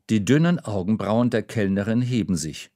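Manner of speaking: plain reading voice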